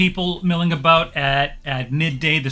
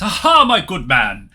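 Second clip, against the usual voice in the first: jolly merchant. Acted. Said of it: "he walks up and he says".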